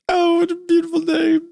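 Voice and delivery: very high, chirpy cartoon voice; cartoon Pim impression. Imitating the cartoon guy's happiness, high and cheery. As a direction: pipe it up in blissful wonder. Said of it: "That's a pretty good comparison".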